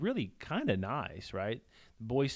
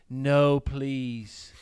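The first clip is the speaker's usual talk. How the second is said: loud, pleading mock Queen's English; 3 semitones higher, 8 dB louder, much slower than usual. Good kid pleads to spare the bad boy, mock Queen's English. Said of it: "a Queen's English accent".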